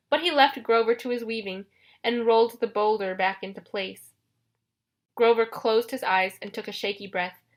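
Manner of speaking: usual speaking voice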